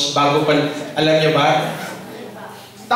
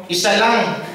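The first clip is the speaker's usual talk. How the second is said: laughing reply; 6 semitones higher, slower than usual. Retold or imitated. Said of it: "Sabi ko".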